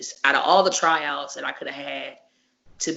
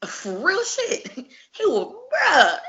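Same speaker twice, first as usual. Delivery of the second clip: higher, laughing through it; laughing emphasis; 13 semitones higher, slower than usual. Real, not acted. The speaker telling friends how ruthless he was, laughing. Laughing about the brutal match.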